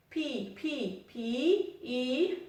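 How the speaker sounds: "Pi" and "i" with a long, held ee; "Pi" said English-style, with a long ee vowel; long vowel sound. Shown as a demonstration. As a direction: draw out the ee in "Pi, pi, pi, i". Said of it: "J'entends un son long".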